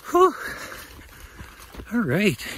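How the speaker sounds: panting, out of breath mid-run; winded, slow and breathy after running. Real, not acted. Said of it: "Let me catch my breath".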